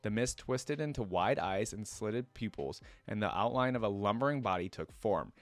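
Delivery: steady lore-reading voice, measured and even; story narration. Acted. Streamer reads League lore to viewers, storyteller voice. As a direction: read it like the lore entry.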